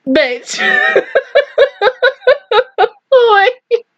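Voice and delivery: one word breaking into high cackling; disbelieving laughter. Real, not acted. Stunned viewer losing it at the reveal, high disbelieving laughter. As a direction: burst into high, helpless laughter after the word.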